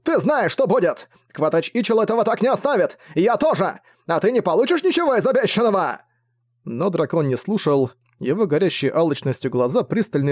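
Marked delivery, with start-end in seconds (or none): 0.0-6.0 much higher, raging threats; raging, high-pitched furious threats; furious yell. A narrator's reading. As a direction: scream threats at the traitor. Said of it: "яростно заорал Джарнак".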